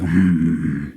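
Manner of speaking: low, musing scrutiny; lightly voiced appraising giant. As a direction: size someone up with drawn-out hums. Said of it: "like a bird".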